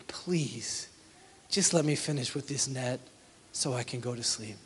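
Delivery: soft, drained plea, almost a whisper; weary plea. Retold or imitated. Peter pleads with Jesus, too tired to go on, soft weary plea. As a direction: beg to be left alone to sleep.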